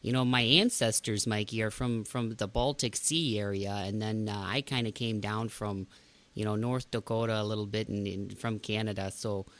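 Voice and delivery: put-on a light North Dakota accent, held; folksy northern US accent. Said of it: "or northern accent".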